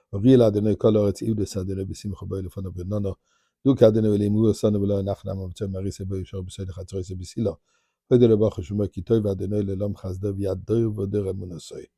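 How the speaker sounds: fast, level liturgical recitation; recited Hebrew psalm. Real, not acted. Rabbi giving thanks for miracles, rapid psalm recitation. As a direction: rattle through the psalm in an even run.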